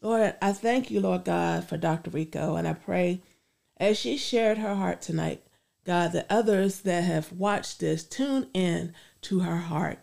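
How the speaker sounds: earnest spoken prayer. Acted. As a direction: pray it out sincerely. Leads a closing prayer.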